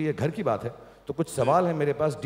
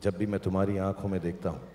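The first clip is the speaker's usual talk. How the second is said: romantic line; 6 semitones lower, 4 dB quieter than usual. Shown as a demonstration. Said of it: "थोड़ा प्यार से बोलो".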